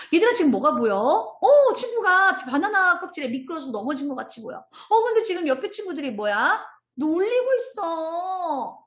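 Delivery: high, animated kindergarten-teacher voice; storytelling to children. Acted. Teacher showing children a picture story, animated and exclaiming. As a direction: exclaim over the picture, drawing out the last words.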